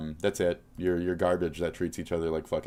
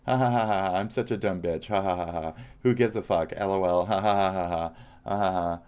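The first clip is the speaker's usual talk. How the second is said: mock laughter; 2 semitones higher, 4 dB louder than usual. Mocking critic's carefree attitude.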